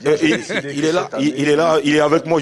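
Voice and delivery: talking on the run; while running. Real, not acted. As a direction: speak while jogging. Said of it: "Je suis en train de courir".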